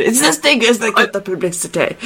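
Hutch's English accent, tried out; British accent. Shown as a demonstration. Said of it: "that's the accent".

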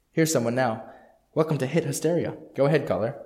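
lightly voiced upbeat radio DJ; booming prize announcer. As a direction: present it like a late-night radio host.

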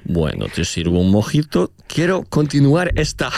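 hammed-up Spanish flirting; mock Mexican Spanish. Riffing the racist rom-com bit in a mock Mexican accent. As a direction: play a cheesy Mexican seducer. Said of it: "Ou avec un accent".

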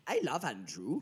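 attempted Welsh lilt on request; Welsh accent. Shown as a demonstration. Repeating it for co-host, Welsh accent. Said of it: "Say Andrew in the Welsh".

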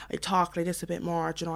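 Cork twang laid on a bit thicker, said softly; emphasised Cork accent. Shown as a demonstration. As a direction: exaggerate your Cork accent slightly. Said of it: "I just kind of emphasize it a lot more".

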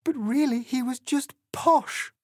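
high-pitched tearful wail; storybook heroine in tears; sobbing. A narrator's reading. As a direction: wail it out as an acted sob. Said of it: "she sobbed".

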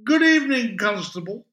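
put-on high, loud, over-polite drunk; swaying drunk putting on politeness; tipsy greeting. A narrator's reading. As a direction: greet the officer far too grandly. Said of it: "swaying, swallowing breath".

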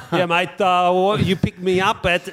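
Guido voice. Retold or imitated. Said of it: "in that fantastic voice he does".

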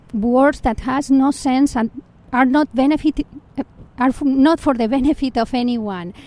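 emotional, near tears; real grief welling up mid-sentence; voice catching with grief. Real, not acted. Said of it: "Sorry, I'm getting emotional right now".

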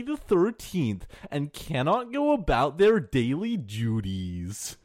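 hammed-up countdown narrator with swooping pitch; Watch Mojo. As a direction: parody a list-video host, big rises and drops. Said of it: "on brand with the Watch Mojo theme".

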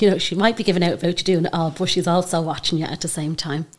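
talking while chewing biscuit; words round a mouthful of biscuit; mouth full. Real, not acted. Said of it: "my mouth is full of chocolate biscuit".

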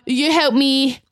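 ordinary talk

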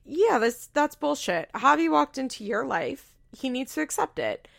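mock outrage at the fiancé's jealousy; indignant rant. Friend defending Bri against jealous Javi, mildly indignant.

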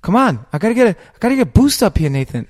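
high, loud whiny plea. Retold or imitated. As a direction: whine like a helpless sidekick. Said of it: "he's just got that whiny voice".

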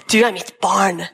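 gentle God voice. Retold or imitated. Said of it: "flyr inn og sier".

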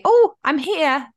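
high, drawn-out call; retold holler. Calling to people coming from her house, a holler. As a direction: holler out to get someone's attention. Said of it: "about to holler".

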